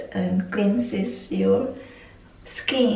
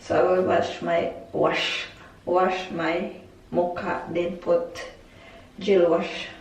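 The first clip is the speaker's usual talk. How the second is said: lisping through a retainer; s sounds slurred into sh; slushy sh for s. Real, not acted. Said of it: "Mahirap magsalita".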